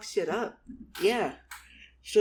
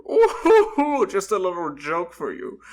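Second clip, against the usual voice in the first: hammed-up chuckling; 3 semitones higher, 11 dB louder than usual. Goblin character chuckles at own joke.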